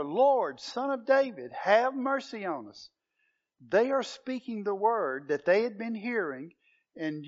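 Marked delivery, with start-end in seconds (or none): 0.0-2.9 higher, louder pleading call; crying out more. Retold or imitated. Blind men shouting over a crowd telling them to hush, pleading. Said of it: "but they cried out all the more".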